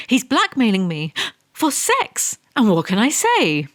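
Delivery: mock outrage, squeaky; shocked squeal. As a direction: pitch jumps up on "sex".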